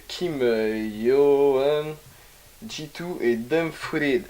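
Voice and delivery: put-on slow, proud English accent on the names. Reading out the featured artists in a mock English accent. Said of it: "T'as vu mon accent anglais?".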